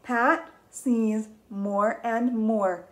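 slow reading. Shown as a demonstration. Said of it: "read it with me".

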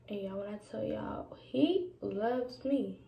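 hushed sincere whisper; tender whisper. Real, not acted. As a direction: whisper it like sacred news. Whispering about God's love.

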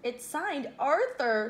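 gleeful telling-on-him call, drawn out; storybook shout. A narrator's reading. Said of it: "shouted Buster".

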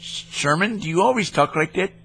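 a lightly put-on goofy caller; mildly goofy prank-caller voice; odd put-on voice. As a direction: toy with the agent in a silly voice. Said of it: "No, my name is Sherman".

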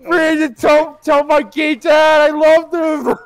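hammed-up dying groans; mock dying. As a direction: overact a dramatic death.

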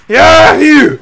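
high, loud mock redneck sneeze; imitated redneck sneeze. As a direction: act out a whooping redneck sneeze. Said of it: "I went".

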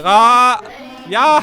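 sudden loud yelp; startled scream. Real, not acted. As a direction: cry out in alarm. Caught by Playtime, screams. (korkuyla çığlık)

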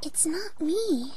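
slow, barely voiced; timid whisper. Fluttershy to Phoenix as hooves approach, slow timid whisper. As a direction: hush it nervously. Shy pony hears galloping.

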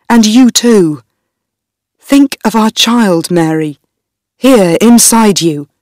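a hint of a scared young husband, pleading; lightly voiced frightened husband begging his wife.

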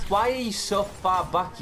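real frustrated yell; exasperated yell. Real, not acted. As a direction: call out the cowardly team. Yelling at teammates.

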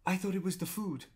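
high, surprised little gasp voice; a waitress realising, voice shooting up; mock shocked waitress. Waitress learning why the couple argued, high surprised. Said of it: "And she was like, gasps".

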